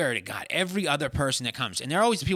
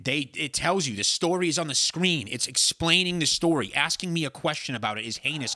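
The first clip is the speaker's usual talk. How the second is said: exasperated lecturing; 5 semitones higher, 6 dB louder than usual. Real, not acted. Ranting at partner about movie questions.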